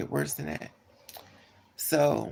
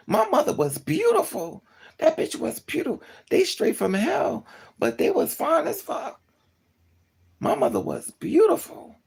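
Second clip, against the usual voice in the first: much higher and louder, gushing; gushing exclaim; 12 semitones higher, 4 dB louder than usual. Real, not acted. Praising the parents' looks to viewers, high and gushing. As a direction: squeal it with mocking admiration.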